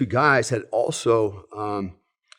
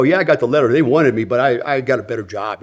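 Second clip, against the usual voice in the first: louder, mildly mimicking a boaster; casual bragging, pushed louder; mock bragging; 5 dB louder than usual. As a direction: play the guy making big excuses. Mimicking guys who boast about letter.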